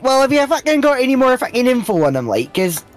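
Scottish dialect turned up a notch; heavy Scottish slang rant; thicker Scottish. Shown as a demonstration. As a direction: lay on broad, sweary Scots. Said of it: "When I meant up a notch".

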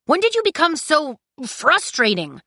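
high, exasperated demand; frustrated outburst. Acted. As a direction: burst out in frustration. Kai's softness gone, frustrated outburst.

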